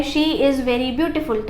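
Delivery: each word slow and clear; slow dictation. Shown as a demonstration. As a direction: spell it out slowly for the class. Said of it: "slow dictation of example". (धीरे-धीरे बोलकर लिखवाना)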